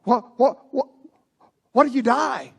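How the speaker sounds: frantic, high and loud, voice going odd; a man alone on a dark road after a crash, panicking. Retold or imitated. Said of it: "and I begin to panic".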